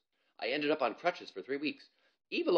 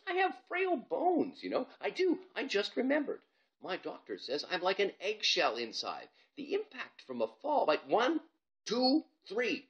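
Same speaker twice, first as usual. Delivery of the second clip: much higher, hurried whine; panicky excuses; 10 semitones higher, 3 dB louder than usual. Acted. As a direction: babble excuses to get out of it. Bob panicking, making excuses.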